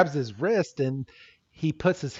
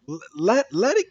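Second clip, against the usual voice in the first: higher, stammering mock struggle; straining protest; 5 semitones higher than usual. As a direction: act out tugging it away. Ash struggles for his Pokeball.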